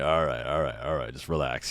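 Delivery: low, soft calming mumble; placating. Retold or imitated. Sober friend settling a gushing drunk, low soft placating. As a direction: talk him down quietly.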